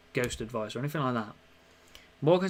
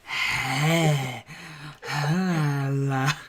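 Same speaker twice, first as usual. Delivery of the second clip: voicing the dog; 4 dB louder, much slower than usual. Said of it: "he'll come over and be like".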